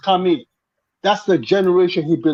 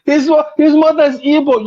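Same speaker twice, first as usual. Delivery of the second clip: laughing; 9 semitones higher than usual. Real, not acted. Laughing rebuttal in banter.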